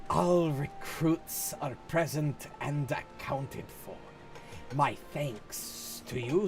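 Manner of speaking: slow, drawn-out S's, lightly hissed; snake voice. Acted. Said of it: "what the fuck I'm trying to do with the fucking snake voice".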